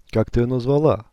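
usual speaking voice

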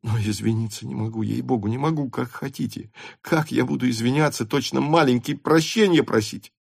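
plead, rising into protest. Acted. Rostov pleads he cannot apologise. (умоляюще, беспомощно возражая)

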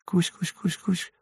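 high, very soft coaxing call; a caretaker softly calling his pet; tender calling. A narrator's reading. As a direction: coax the creature down gently. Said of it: "ласково позвал".

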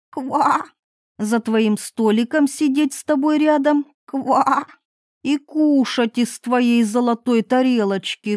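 lightly voiced little frog, croaking between phrases; a hint of a pleading frog. Frog voiced in fairy tale.

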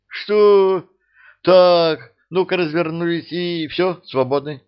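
high, loud angry dismissal; throwing them out. A narrator's reading. Alyosha throws the greedy trader out, loud angry dismissal. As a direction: chase them off with a shout.

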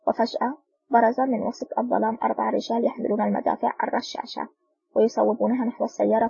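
ordinary delivery, nothing marked

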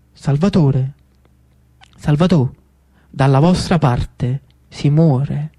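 slow, drawn-out voice of a dead man; ghostly dead face. Acted. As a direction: let the corpse speak slowly. Dead face speaks to Salvatore.

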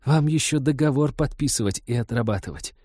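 lightly voiced sneering crook; sinister hiss. A narrator's reading. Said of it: "зловеще прошипел падла".

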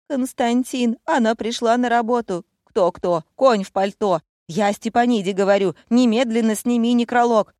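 loud, commanding call down the line; urgent phone shout. A narrator's reading. Director yells at Konstantin over the phone, loud and urgent. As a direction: bark orders into the phone.

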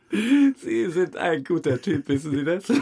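slowly savoured flattery; slow praise. Real, not acted. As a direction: stretch out the compliment. Drawn-out friendly praise.

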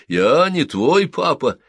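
put-on high, slow, loud childish echo; the boy echoes the words back. A narrator's reading. Boy echoes the sergeant's denial in a high child's voice.

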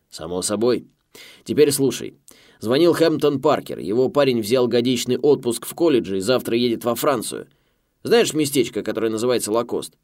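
loud, brash American boss. A narrator's reading. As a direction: bark down the phone line. Boss on the phone.

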